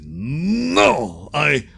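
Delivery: hammed-up defiant cry, climbing to a peak; mock angry captain refusing to leave; angry refusal. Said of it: "this fills him with dread and regret and anger".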